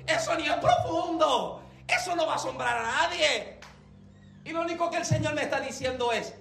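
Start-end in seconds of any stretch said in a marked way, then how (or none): 0.1-3.6 queja incrédula, más aguda; protéstale a Dios con reparo; protesta actuada. Retold or imitated. Protesting to God in retold scene. (objeción quejosa)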